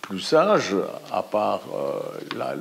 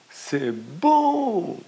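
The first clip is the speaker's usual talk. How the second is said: high, distant echo of the cry; 11 semitones higher than usual. A narrator's reading. The valley echoing the girl's words, faint and high. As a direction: call it back like a far-off mountain echo. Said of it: "l'écho renvoie".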